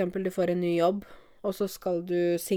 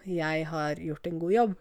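proud statement. Shown as a demonstration. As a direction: say it plainly and proudly, owning it. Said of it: "nå sier jeg det offentlig". (stolt og rolig: «Jeg har gjort en god jobb»)

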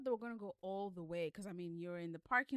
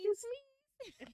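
higher, whiny little plea; pleading Eve; 7 dB louder than usual. Retold or imitated. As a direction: beg sweetly for the ride. Eve begging, echoing S1.

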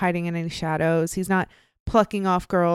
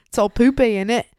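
silly British "innit"; lightly hammed-up British accent; mock British accent; 2 semitones higher than usual. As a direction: toss it off as a bad Brit. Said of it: "had a British or a Canadian accent".

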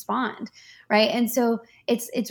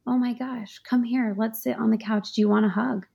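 tender comfort. Shown as a demonstration. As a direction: ease her onto the couch with a hushed voice. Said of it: "You can say".

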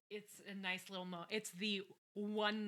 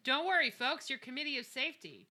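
loud, raised mock speechifying; bargain-rate Clive Owen; 5 semitones higher, 6 dB louder than usual. Brown addressing the crowd for the safety committee, mock bluster. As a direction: imitate a cheap leading man rousing folks. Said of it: "bargain rate Clive Owen starts up".

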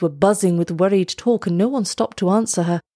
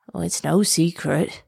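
put-on shaky old man voice; 3 dB quieter than usual. A narrator's reading. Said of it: "in a shaky voice".

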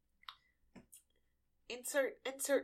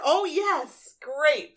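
loud, high delighted cheer; thrilled cry of joy; excited cheer; 4 semitones higher, 18 dB louder, much slower than usual. Real, not acted. Delighted by good bonus.

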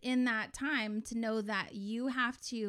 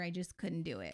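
laughing; 3 semitones lower, 4 dB quieter than usual. Real, not acted. Recalling failing to write letter.

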